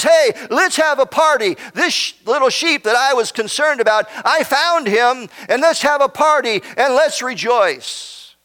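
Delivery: rejoicing shepherd. Retold or imitated. Preacher voices shepherd who found his sheep, mildly celebrating. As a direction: call out the good news, lightly acted. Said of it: "and he says".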